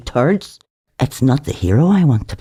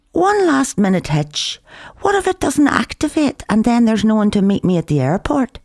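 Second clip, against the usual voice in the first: raised voiced line; 8 semitones higher than usual. Narrator voices his own hitch.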